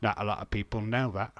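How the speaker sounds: understated Michael Caine impression. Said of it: "That's my Michael Caine".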